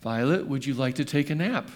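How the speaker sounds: mommy's whispered question. Retold or imitated. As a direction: whisper it gently to a sleepy child. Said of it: "I heard her mommy say".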